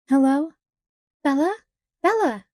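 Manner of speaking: high, loud panicked calling of her daughter's name; a mother in a frantic panic, calling out. Acted. A mother on the phone panicking, calling for her daughter, frantic. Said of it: "It was the sound of panic".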